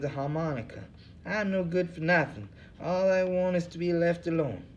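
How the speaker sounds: a weary bum who cares for nothing, high; second hobo voice. Acted. Bum Hubbard answering the interviewer, in a high tired voice.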